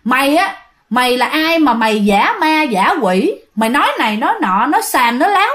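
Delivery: put-on mildly annoyed old uncle telling someone off; lightly acted scolding, rising at the end; retold scolding. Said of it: "cái ông mới chửi". (giả giọng ông chú mắng, hơi gắt)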